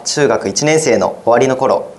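ordinary talk

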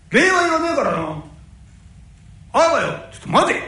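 loud. Acted. Heated parting and call back.

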